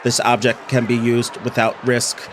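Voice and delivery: monotone machine readout; robot voice. Acted. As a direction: speak like a scanning robot. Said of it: "I'm impressed with my own robot voice".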